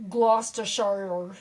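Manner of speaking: Gloucestershire drawn out slowly as GLOSS-ter-shire; slow, careful go at Gloucestershire; tricky place name. Shown as a demonstration. Example of hard Massachusetts names, Gloucestershire said slowly. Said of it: "I can't say any of them".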